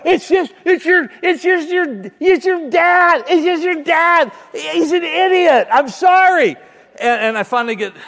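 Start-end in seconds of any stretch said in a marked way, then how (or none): 0.0-6.5 much higher and louder, frantic slow pleading; panicked reassurance. Retold or imitated. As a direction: shout reassurance over a screaming child. Dad calming terrified son.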